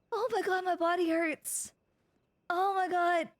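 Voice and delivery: ordinary talk, nothing marked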